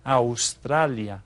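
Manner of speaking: Australia drawn out slowly, ow-STRA-lee-ah in Spanish. Shown as a demonstration. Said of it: "we pronounce it a little bit differently".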